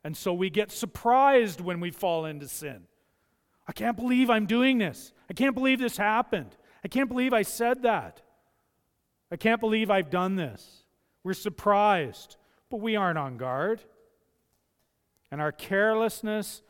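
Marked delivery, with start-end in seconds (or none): 3.7-10.8 louder, dismayed disbelief; can't believe what you just did; shocked disbelief. Pretend. Sinner caught off guard, voicing loud shocked disbelief.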